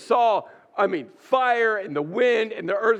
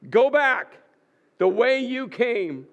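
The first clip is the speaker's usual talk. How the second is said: firm command; 2 semitones higher, 3 dB louder, slower than usual. Acted. God's command to Elijah, acted.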